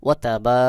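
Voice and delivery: short ওয়া তা, then a long held বা; elongated vowel. Shown as a demonstration. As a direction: draw out the a of বা. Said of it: "এক আলিফ টান দিয়ে পড়তে". (বা-তে এক আলিফ টান)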